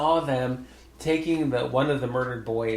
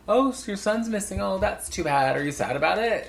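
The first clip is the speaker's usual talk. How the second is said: mock British taunting; 8 semitones higher than usual. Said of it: "in a British accent".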